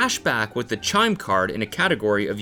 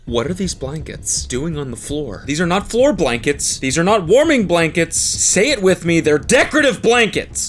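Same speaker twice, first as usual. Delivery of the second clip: higher, louder sing-song scolding; mock lecture; 4 semitones higher, 3 dB louder than usual. Friend mocking the cleaning lady's blanket rules, louder sing-song. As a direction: lecture like a fussy host.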